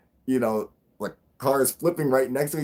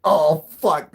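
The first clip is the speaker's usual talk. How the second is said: 1 shocked; 6 semitones higher, 8 dB louder than usual. Retold or imitated. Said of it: "We're like".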